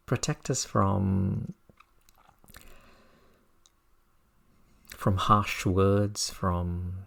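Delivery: halting phrases with long pauses; meditation teaching. Real, not acted. Teacher passing on words of wisdom to meditators, slow contemplative delivery. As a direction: offer each image slowly, leaving space.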